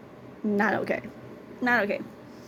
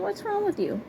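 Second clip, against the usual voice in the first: much higher appalled squeal; high, shocked you-creep outrage; disgusted retort; 11 semitones higher, 3 dB quieter than usual. Retold or imitated. Retold rebuff of creepy stranger.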